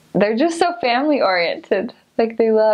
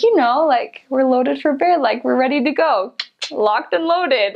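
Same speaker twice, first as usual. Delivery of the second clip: Wisconsin local explaining; 4 semitones higher than usual. Retold or imitated. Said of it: "And he's like".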